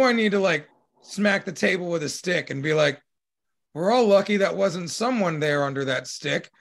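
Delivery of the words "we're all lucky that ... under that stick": mild stern father, rising on the question; a hint of a strict dad laying down the law. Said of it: "pull out the stern dad voice".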